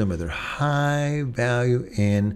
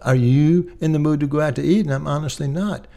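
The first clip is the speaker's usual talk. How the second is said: mimicking wife's casual ask; 4 semitones higher, faster than usual. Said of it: "I didn't hear you begging".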